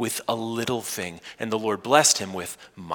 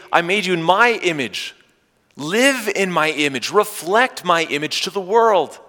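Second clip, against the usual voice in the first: God's fervent call; 7 semitones higher, 5 dB louder than usual. Acted. Voices God calling the listener back.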